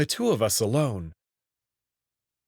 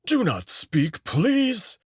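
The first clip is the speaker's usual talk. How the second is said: put-on higher, curt old wolf voice with a sharp lift on please; higher curt command from a fussy old wolf; stern old wolf; 7 semitones higher, much slower than usual. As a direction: shush the fidgeting client. Wolf scolds Marco for talking.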